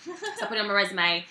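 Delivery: put-on practised British accent, lively and chatty. Actress explaining how she learned it, British accent.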